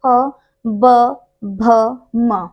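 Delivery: फ, ब, भ, म said one by one from the lips; teacher modelling the प row; reciting consonants. Shown as a demonstration. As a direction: sound out the lip consonants slowly. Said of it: "आप जब उच्चारण करेंगे ना".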